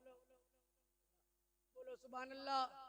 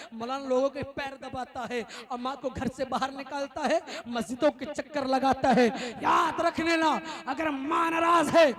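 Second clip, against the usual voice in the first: from firm to loud, shouting warning; building sermon; 16 dB louder than usual. Acted. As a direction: build each line louder till it peaks. (جوش بڑھاتی تقریر)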